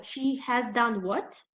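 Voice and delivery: slow, rising "what"; "She has done what?" drawn out with a rise; slow questioning echo. Shown as a demonstration. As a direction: ask it back slowly.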